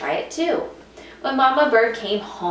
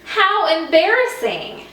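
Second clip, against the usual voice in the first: high, louder mortified cry; embarrassed; 9 semitones higher, 6 dB louder than usual. Acted. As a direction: groan it out in shame. Embarrassed exclamation.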